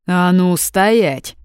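loud barked command; barking order. Acted. Brother barking at both women, loud command. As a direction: bark it to freeze them. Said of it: "Брат рявкнул так".

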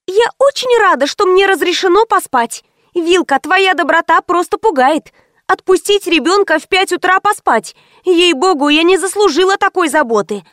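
mock her kindness sweetly. A narrator's reading. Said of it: "её издевательские высказывания".

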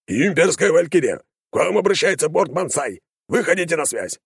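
pilot's voice over the radio; crackling through the headphones; over a pilot headset. Acted. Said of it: "раздался в наушниках голос пилота".

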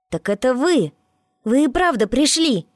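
high, loud, bursting with joy; thrilled they finally came; overjoyed. A narrator's reading. Boy greets the demons he summoned, high and overjoyed. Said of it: "От радости он запрыгал".

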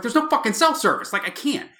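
high, loud frantic protest; high-pitched mock-frantic comeback; exasperated retort. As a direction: re-enact helpless exasperation at wife. Acted exasperated reply to wife.

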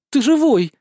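high, loud burst of relief; relieved cry. Acted. Spirit greeting her rescued master, loud joyful relief. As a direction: throw it out, overjoyed he's alive.

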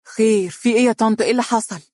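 nervous stammered question; stammering young woman. A narrator's reading. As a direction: ask haltingly, caught off guard. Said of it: "فقالت في تلعثم".

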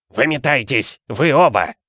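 hoarse order. A narrator's reading. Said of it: "прохрипел дядя Вернон".

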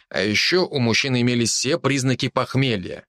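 ordinary delivery, nothing marked

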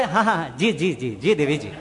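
a hint of a cowed husband saying yes dear; meek husband. Henpecked husband humbly answering his wife at home. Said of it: "ઘરે જાવ ત્યારે".

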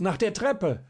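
high, loud call, stress on der, falling; shouting up. A narrator's reading. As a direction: repeat it urgently, landing on der. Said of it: "schrie ihm jetzt Schierling zu". (lauter Ruf, Betonung auf der)

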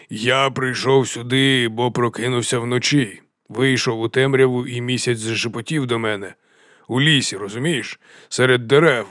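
lightly voiced storytelling chieftain; mildly grandiose character voice; theatrical mountain chieftain. Voices Kramok telling of the moon.

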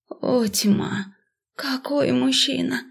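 soft, slow swoon; breathless awe. A narrator's reading. Heroine swooning over the stranger, hushed. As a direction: sigh it out, dazzled.

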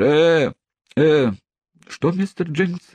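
high, testy questioning; irritable. A narrator's reading. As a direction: snap impatiently at the clerk. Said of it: "раздражительно спросил судья".

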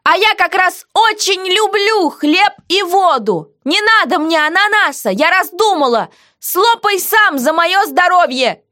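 high, slow, mocking heroine; defiant heroine. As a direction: tease the jailer back, slowly. Heroine voiced in dialogue.

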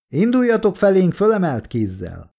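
high, carrying command; shouted order. A narrator's reading. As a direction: call out instructions across a field. Officer orders across the field.

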